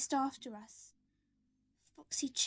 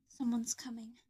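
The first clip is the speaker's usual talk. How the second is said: hushed, breathless whisper. Acted. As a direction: whisper a warning in the dark. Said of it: "Michael whispered".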